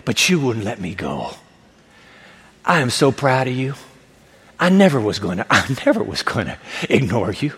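low, gentle Jesus voice; tender praise. Acted. Jesus tenderly praising the sobbing woman.

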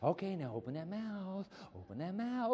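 lightly voiced coaxing mother; playful spoon-feeding talk; mama coaxing baby. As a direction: coax a baby to open up. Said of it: "your mama doing this".

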